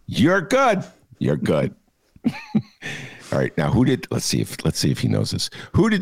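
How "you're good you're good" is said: De Niro impression. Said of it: "I'm De Niro".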